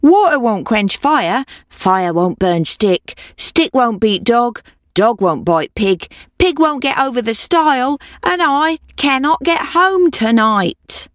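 lightly voiced old woman, slow and sing-song; a hint of a weary old woman begging; old woman's chant, slowed; old woman pleading. A narrator's reading. Old woman's repeated plea.

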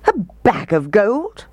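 high-pitched indignant question; mild storybook roar. A narrator's reading. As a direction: throw it back in mock outrage. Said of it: "roared the mayor".

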